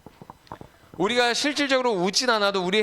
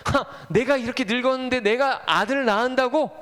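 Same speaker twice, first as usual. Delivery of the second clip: higher, acted disbelieving scoff; incredulous scoff; 4 semitones higher than usual. Old Sarah told she will bear a son, incredulous scoff. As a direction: scoff as if it's absurd. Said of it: "어이없어서".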